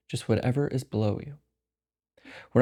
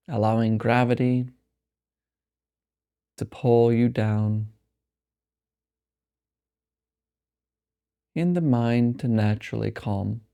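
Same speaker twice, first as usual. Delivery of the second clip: slow meditation voice with long pauses; guided meditation; 2 semitones lower than usual. Acted. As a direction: guide them slowly into rest, phrase by unhurried phrase. Leads a meditation.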